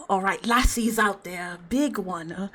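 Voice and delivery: lightly put-on Scottish accent; feeling your way into a Scottish accent; fake Scottish accent. Shown as a demonstration. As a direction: try out a rough Scottish voice. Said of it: "my fake ass Scottish accent".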